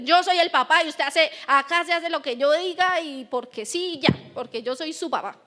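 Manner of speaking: a hint of a bossy father laying down the law; padre autoritario. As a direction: lightly voice a strict dad: my house, my rules. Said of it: "nos volvemos todo autoritarios". (imitando levemente a un papá autoritario)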